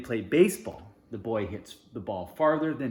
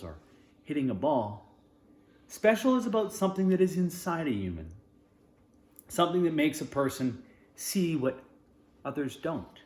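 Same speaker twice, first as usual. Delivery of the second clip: fatherly gentle. Acted. Father consoling Sebastian, lightly voiced and gentle. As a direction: comfort your son. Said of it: "Sebastian's father says".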